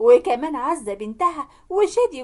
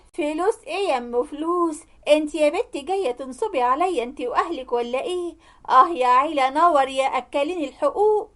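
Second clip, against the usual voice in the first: mildly acted scolding rant; mock mother-in-law tirade; ranting yell; 2 semitones higher than usual. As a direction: rail indignantly, short of a full shout. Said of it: "فضلت تزعق وتهلل".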